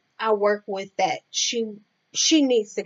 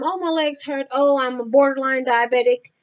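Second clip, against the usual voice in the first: higher-pitched imitation of a complainer; mock complaining; 4 semitones higher than usual. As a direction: mimic someone who complains all the time. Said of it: "You complain all the time".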